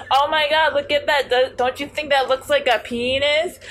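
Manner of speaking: loud high excited whisper-joke; excited friend. Retold or imitated. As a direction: blurt it out, thrilled. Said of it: "She's like".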